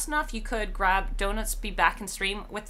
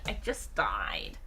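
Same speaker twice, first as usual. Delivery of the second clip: slow breathy whisper, much lower and softer; hushed deadpan whisper; 13 semitones lower, 6 dB quieter, slower than usual. Real, not acted. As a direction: whisper it as a dying aside. Repeating the punchline.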